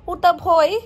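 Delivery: a toddler scared by the vendor's call, in a mock wail; imitating frightened toddler. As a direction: mimic the child's scared wail, lightly. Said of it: "মিহিদানা কাকু একবার ডাক দিয়েছে".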